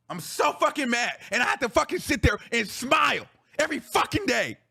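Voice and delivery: angry venting that rises to a shout; fed-up rant, punching the swear words; real anger. Real, not acted. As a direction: build from seething to an outburst.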